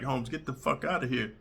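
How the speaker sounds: tough-guy imitation of his own threat; mock threat. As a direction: stand your ground and dare them.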